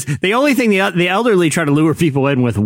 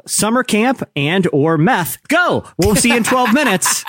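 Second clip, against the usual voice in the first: lightly voiced host, pitch jumping up on the send-off; mock church host; 6 semitones higher, slower than usual. Host launching a twelve-minute greeting time, mock upbeat announcement. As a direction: send the congregation off with a high, lively kick. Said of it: "I would say".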